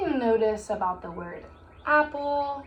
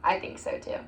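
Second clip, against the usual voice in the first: whisper; 5 dB quieter than usual. Shown as a demonstration. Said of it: "teacher answers pupils".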